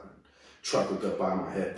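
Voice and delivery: ordinary delivery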